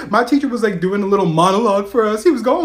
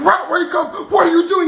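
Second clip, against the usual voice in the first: high, loud mock sergeant yell; 10 semitones higher, 4 dB louder than usual. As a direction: yell to rouse a cadet. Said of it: "literally yelling at me".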